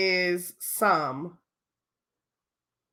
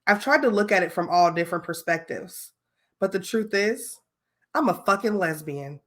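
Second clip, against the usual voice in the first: acting voice. Shown as a demonstration. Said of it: "I'm gonna put my acting voice on".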